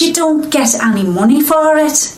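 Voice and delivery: husband's grumble drifting into Geordie; Geordie-ish husband voice. Acted. Wife voicing husband's complaint about money, drifting Geordie accent. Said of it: "my favourite bits".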